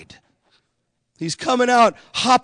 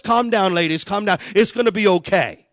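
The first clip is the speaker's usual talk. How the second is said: calming. Retold or imitated. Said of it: "I'm calming the nurses down".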